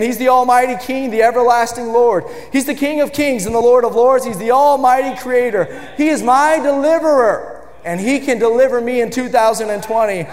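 rising shouted proclamation; building sermon cry; full-force preaching. Real, not acted. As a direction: preach it out to the whole church.

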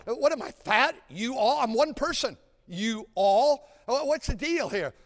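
mock bewilderment. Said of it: "I was making fun of them".

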